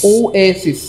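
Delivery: ওয়েসিস echoed as "oh-AY-sis"; correct pronunciation. Shown as a demonstration. Teacher echoing the recording for students, careful "oh-ay-sis". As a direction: copy the recording, ওয়েসিস with a long "ay". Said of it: "আরো slow করে শোনাচ্ছি".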